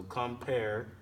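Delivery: "compare" drawn out slowly, weight on the second syllable; slow "compare", unstressed then stressed. Shown as a demonstration.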